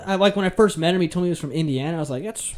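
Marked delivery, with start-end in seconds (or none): 2.2-2.5 higher-pitched incredulous challenge; retold disbelief. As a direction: re-enact calling out an absurd claim. Retells challenging the man's claim.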